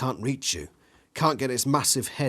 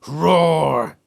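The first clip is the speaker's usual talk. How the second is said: big loud roar, pitched up; dinosaur roar; 5 semitones higher, 10 dB louder than usual. A narrator's reading. The T-Rex roars inches from your nose.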